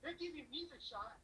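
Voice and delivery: indignant disbelief, lightly acted; upset retort. Son telling mom the job is real, mildly upset. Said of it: "I was so upset with my mom".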